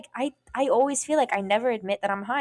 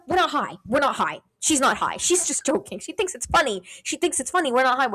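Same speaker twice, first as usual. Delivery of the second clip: imitated frantic cover-up; 4 semitones higher than usual. Friend frantically covers for her.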